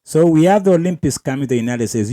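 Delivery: loud, fast mock Trump announcement; mocking Trump quote. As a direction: boom it out like a mock big announcement. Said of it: "check it out".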